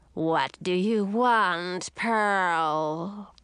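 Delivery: put-on slow, drawn-out old witch voice; slow sea witch. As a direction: let the old sea witch drag each word. Witch speaks from chair.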